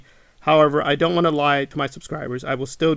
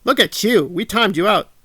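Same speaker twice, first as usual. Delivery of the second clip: mock gloating; 5 semitones higher, 3 dB louder than usual. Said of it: "They're proud of themselves".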